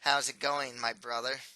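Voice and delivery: a hint of nasal sarcasm; nasal sarcastic ghost. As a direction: tease him, lightly nasal. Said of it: "responds in a nasally voice that always sounds sarcastic".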